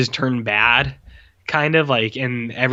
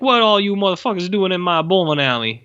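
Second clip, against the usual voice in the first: wise-talking imp; 6 semitones higher than usual. Retold or imitated. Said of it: "wise talking".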